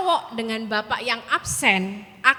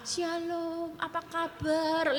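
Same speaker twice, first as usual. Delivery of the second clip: much softer, slow, gentle churchy greeting; soft sweet greeting; 3 semitones higher, 8 dB quieter, much slower than usual. Retold or imitated. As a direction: coo it sweetly to the congregation. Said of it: "Lembut-lembut aja". (sapaan lembut manis kepada jemaat)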